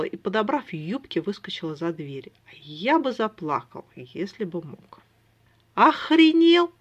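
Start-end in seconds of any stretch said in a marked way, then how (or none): 5.7-6.7 high, loud outraged yell; shouting into a dumb brother's ear. Acted. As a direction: yell it right into his ear. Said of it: "закричал я этому олуху на ухо".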